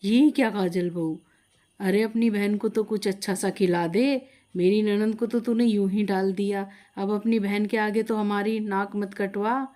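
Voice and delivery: a lightly voiced stern mother-in-law, scolding; mild scolding of the daughter-in-law; mother-in-law mildly scolds her daughter-in-law. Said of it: "डांट के बोली".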